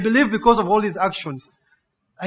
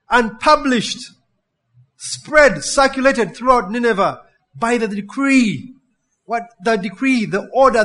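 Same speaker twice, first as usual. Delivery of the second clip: building emphasis; 2 semitones higher, 4 dB louder than usual. Acted. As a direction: pile on the words with rising force. Escalating list of synonyms.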